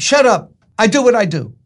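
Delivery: mock a stubborn brush-off; surly fool Nabal. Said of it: "But that's Nabal".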